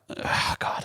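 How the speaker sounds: whispered shocked gasp; horrified whisper. Retold or imitated. Japanese crew reacting to the swearing, horrified whisper. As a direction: breathe it out in dismay.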